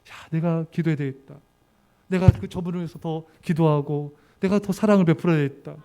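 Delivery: low and earnest, a gentle resolve; resolved self-reflection. Retold or imitated. Believer answering complaints with a humble vow, low and earnest. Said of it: "문제를 터뜨리는데".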